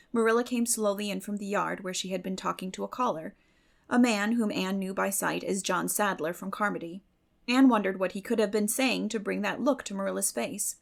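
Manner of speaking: usual speaking voice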